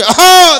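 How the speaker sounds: loud high "aaha" throat-clear; mock throat-clearing. Old uncle clearing his throat to open the car window, loud hawk.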